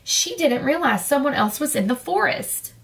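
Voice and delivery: put-on reading a picture book aloud to kids; lively storyteller voice for children; story narration. A narrator's reading. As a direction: bedtime story read-aloud.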